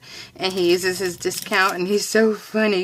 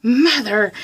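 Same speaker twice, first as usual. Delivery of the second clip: drawn-out, higher mock-mortified groan of words; 4 semitones higher, much slower than usual. Daughter to mother with fly swatter in Denny's, mortified. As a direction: stretch it out in embarrassed disbelief. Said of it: "I am mortified".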